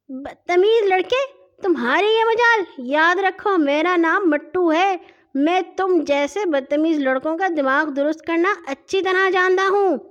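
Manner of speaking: high, loud bullying voice; indignant, forceful telling-off; angry threat. Acted. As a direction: threaten him as the bigger boy. Bully grabs Hashim and threatens.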